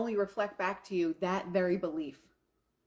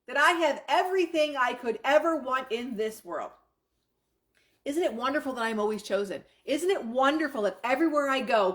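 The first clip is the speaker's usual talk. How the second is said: excited; 3 semitones higher, 3 dB louder than usual. Shown as a demonstration. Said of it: "in happiness, in joy, in disbelief".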